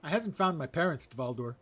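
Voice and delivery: high, loud, earnest little ratonga voice; young rat creature. Acted. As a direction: plead like a small would-be pirate critter.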